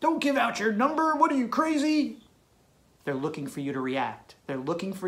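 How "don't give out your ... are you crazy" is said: higher, mock stern dad scolding. Boyfriend acting like her dad, mock scolding. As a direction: scold her like an overprotective father. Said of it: "You became her dad".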